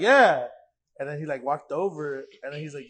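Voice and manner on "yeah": loud, higher, emphatic confirmation; retold eager yes. Fan assures the player he is serious, retold eager yes. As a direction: fire back an eager yes, re-enacted.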